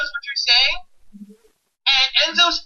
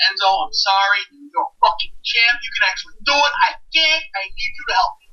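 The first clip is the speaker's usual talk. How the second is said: put-on Brooklyn accent; 4 semitones lower than usual. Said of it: "In my shittiest Brooklyn accent".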